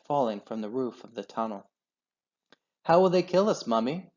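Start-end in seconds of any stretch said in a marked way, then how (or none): 2.8-4.1 higher small fox voice, scared; a little cub asking mother in fright; frightened child. A narrator's reading.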